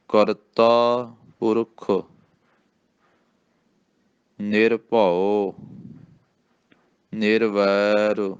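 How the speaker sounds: slow, clear recitation for pupils; ਹੌਲੀ ਪਾਠ. Shown as a demonstration. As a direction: recite word by word slowly. Teacher reciting line slowly.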